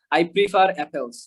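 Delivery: Indian-style fully sounded R in "prefer"; Indian accent. Shown as a demonstration. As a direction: say it slowly like an Indian speaker, R pronounced. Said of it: "ইন্ডিয়ানদের মতো কিন্তু আমি বলি নাই". (ভারতীয় উচ্চারণে, র স্পষ্ট করে)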